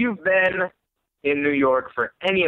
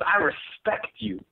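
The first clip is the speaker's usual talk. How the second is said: higher, slow, drawn-out oddball voice; crazy subway stranger; 6 semitones higher, 4 dB quieter, slower than usual. Retold or imitated. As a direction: imitate a stranger stretching each word earnestly. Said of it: "there will be a crazy person".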